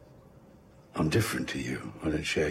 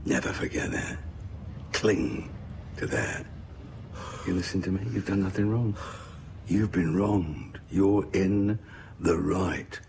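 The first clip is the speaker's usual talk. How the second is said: calm. Acted. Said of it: "Meredith approaches Colin calmly".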